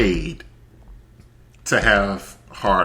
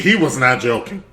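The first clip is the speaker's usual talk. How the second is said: "not" hit firmly, louder and higher; emphatic confirmation; 5 semitones higher, 6 dB louder than usual. Real, not acted. Backing up the co-host, emphatic stress on "not". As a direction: punch "not" to insist on it. Emphatic echo of co-host's remark.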